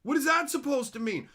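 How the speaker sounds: loud, high confused rant; incredulous yell at the screen; baffled outburst. Retold or imitated. Reacting to anime emojis, loud confused yell. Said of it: "And it's like".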